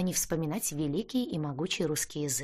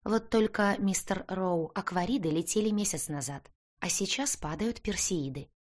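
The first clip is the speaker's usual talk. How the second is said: sarcastic; 2 semitones higher than usual. Acted. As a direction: correct him with a barb. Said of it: "язвительно заметила".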